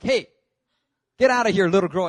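mock-angry shout; bouncer's order. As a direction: imitate a bouncer chasing someone off. Bouncer orders drunk friend away.

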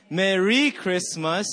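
"Merry" with RY punched and stretched; slow phrase, hit RY in "Merry"; stress on second syllable. Shown as a demonstration. Pastor leading the game together, stress on RY of "Merry". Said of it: "you emphasize every syllable".

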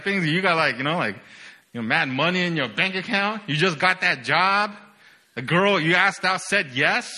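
usual speaking voice

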